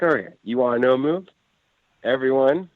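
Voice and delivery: mildly upset. Retold or imitated. Upset player addresses the kids, mildly exasperated. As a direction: imitate an exasperated player relenting. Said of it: "he gets all upset".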